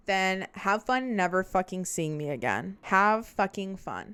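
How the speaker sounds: loud, slow retold telling-off; angry retort. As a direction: fling it at an ex, drawn out and loud. Acted quarrel with ex on phone.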